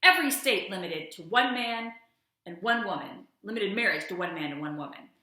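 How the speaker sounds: hammed-up courtroom drama read aloud; dramatic reading. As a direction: thunder through the dissent like a stage monologue. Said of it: "a special dramatic reading".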